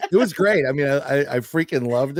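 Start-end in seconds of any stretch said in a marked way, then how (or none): 0.1-0.7 laughing while talking. Real, not acted. Still laughing.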